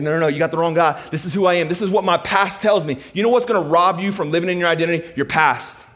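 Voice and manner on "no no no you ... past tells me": protest. Acted. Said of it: "he's like".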